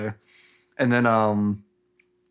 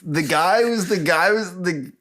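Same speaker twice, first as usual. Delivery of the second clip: high, swooping astonishment, played up; mock stunned disbelief; 7 semitones higher than usual. Serena realizes Spirit was Raedon, mock stunned disbelief. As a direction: stammer into a high-pitched "what?".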